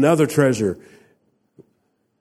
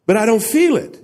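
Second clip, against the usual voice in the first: doubting listener; 11 semitones higher, 4 dB louder, faster than usual. Retold or imitated. Voicing a doubter's objection.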